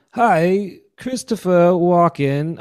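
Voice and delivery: high, slow actor impression; slow celebrity impersonation, American accent; Christopher Walken. Shown as a demonstration. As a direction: stretch each word in an odd cadence. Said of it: "here's Christopher Walken, just regular".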